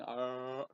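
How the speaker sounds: long held "ahh", mouth wide; open-jawed "ahh". Acted. Patient stuck open-mouthed in the dentist's chair, drawn-out "ahh". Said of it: "your jaw was open".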